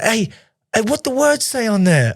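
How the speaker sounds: high imitated Texan, curious; Texas Southern accent. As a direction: call out a question like a Southern stranger. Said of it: "I'm trying to do the accent here".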